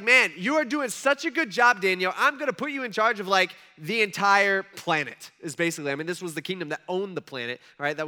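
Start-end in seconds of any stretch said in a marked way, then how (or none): 0.0-5.3 booming king. Acted. King praising Daniel, acted quote.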